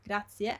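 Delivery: grazie as grat-si-e; both vowels pronounced. Shown as a demonstration. Teacher repeats the model word, both vowels heard. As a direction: finish grazie on a clear i then e. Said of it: "you pronounce them".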